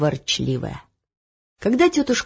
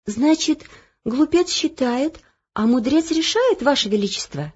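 higher, polite correction; lightly voiced page girl; 6 semitones higher than usual. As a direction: Olya correcting the king politely. Page Olya questioning king. (вежливо)

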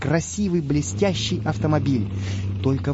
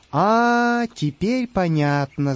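laughing; 4 semitones higher, much slower than usual. Acted. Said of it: "засмеялся голос".

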